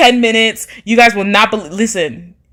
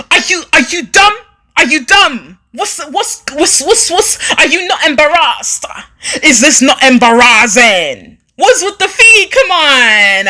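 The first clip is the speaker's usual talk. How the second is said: put-on London accent; 3 semitones higher than usual. Streamer mocking a commenter in a laughing London accent. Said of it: "let me put on my England, London accent".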